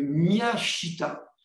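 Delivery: Miyashita, syllabe par syllabe, très lent; détachez bien Miyashita, lentement, à la japonaise; nom japonais prononcé avec soin. Shown as a demonstration. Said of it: "pardonnez donc mon, mon accent". (prononcer Miyashita lentement, en s'excusant de son accent)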